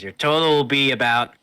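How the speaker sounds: high, loud merchant voice; shopkeeper voice. Acted. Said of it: "he says".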